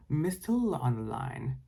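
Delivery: lightly put-on Jamaican accent; a hint of a Jamaican psychic voice. Raven as Miss Tallulah greets a caller, light Jamaican accent. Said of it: "Raven said in a Jamaican accent".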